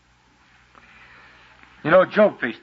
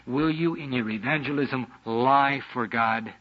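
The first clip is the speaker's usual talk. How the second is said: slow emphatic question; 4 semitones lower, 6 dB quieter, slower than usual. Real, not acted. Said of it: "slowed repeat of Job's question".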